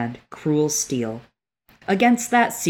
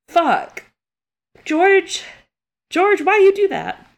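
high, loud cry at the author; pleading with George through tears; anguished plea; 5 dB louder, slower than usual. Real, not acted. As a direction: wail at George in grief. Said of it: "We're big sad".

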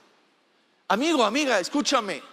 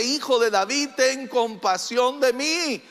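stronger retold cry. Blind beggar calling on Jesus for mercy, stronger retold cry. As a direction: plead insistently in a moderately raised voice. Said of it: "gritó aún más fuerte".

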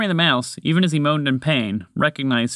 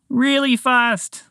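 higher, slower little creature voice; high squeaky echo; 12 semitones higher, much slower than usual. Acted. Mouse echoes his friend in a slow high squeak. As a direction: stretch it out in a tiny high squeak.

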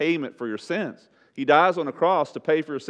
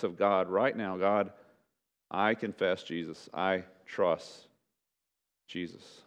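measured invitation with long pauses; altar call; 3 semitones lower than usual. Real, not acted. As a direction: gently lead them toward prayer, phrase by phrase. Closing invitation with bowed heads.

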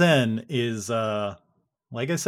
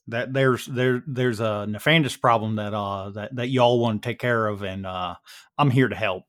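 casual Texan, halting with uh's; Texan between mouthfuls; 2 semitones lower than usual. Acted. Dan briefs the group on his mentor's word, light Texas accent. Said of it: "he's talking between, like, mouthfuls".

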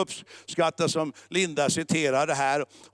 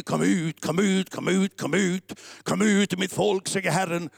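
lightly raised, repetitive exorcist chant; mock shouting preacher; 2 semitones higher than usual. Mocking preachers who shout at demons, mildly raised chant. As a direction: imitate a preacher crying out over and over. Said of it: "Predikanten står och skriker".

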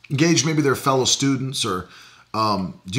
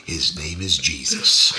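creepy low voice; 10 semitones lower than usual. Retold or imitated. Repeating the creepy line.

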